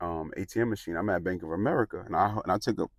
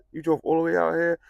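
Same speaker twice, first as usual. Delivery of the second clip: high, amazed "you came all this way?"; startled woman at her door, high and amazed; amazed lady; 9 semitones higher, 6 dB louder than usual. Retold or imitated. Lady at her door amazed he drove so far, high and astonished.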